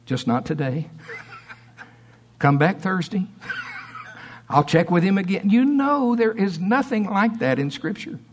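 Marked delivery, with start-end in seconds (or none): 0.0-5.5 mock hesitant healer, understated; lightly voiced parody, breaking into chuckles; Jesus. Preacher mocking a Jesus who delays healing, amused understated impression. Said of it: "And Jesus, you know, he kinda listens".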